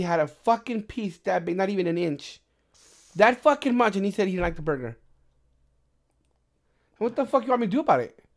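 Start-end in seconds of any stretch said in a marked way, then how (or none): 3.1-3.9 high, loud disbelief; loud, high scoff at the tiny bite; emphatic outburst. Real, not acted. Showing tiny burger piece. 7.0-8.2 higher, louder annoyed snap; mock-angry retort to the customer; exasperated retort. Retold answer to complaining customer.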